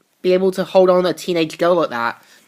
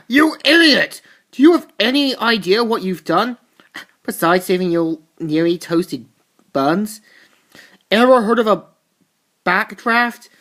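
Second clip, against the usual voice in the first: angry scolding; 3 semitones higher than usual. Retold or imitated. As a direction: chew him out for nearly burning. Firefighter scolding reckless hero.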